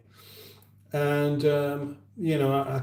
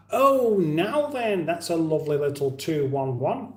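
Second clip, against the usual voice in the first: a hint of a northern enthusiast admiring a car; northern accent; 3 semitones higher than usual. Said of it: "in his typical northern accent".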